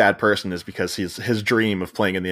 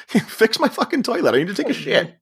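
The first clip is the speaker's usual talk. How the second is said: mock angry client; 11 semitones higher than usual. Angry client demanding toilet fixed.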